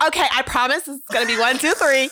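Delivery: quick, upbeat ear piercer's patter; lightly acted salesgirl pep. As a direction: reassure a customer with a brisk countdown. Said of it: "they come up to you and they're like".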